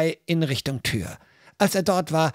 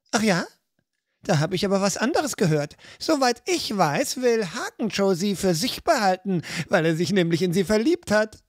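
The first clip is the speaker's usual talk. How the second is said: grinning; 4 semitones higher than usual. Acted. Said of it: "erwiderte sie grinsend".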